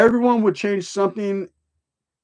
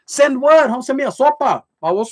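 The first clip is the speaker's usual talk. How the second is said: mocking retort; 8 semitones higher than usual.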